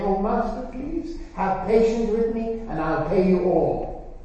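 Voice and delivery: slow, begging servant's plea; pleading servant. Acted. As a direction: beg for mercy, drawn out.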